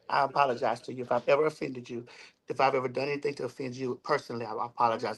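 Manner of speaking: low, subdued apology; sincere apology. Real, not acted. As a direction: apologize calmly, pitch dropped well down. Sincere apology before leaving the talk.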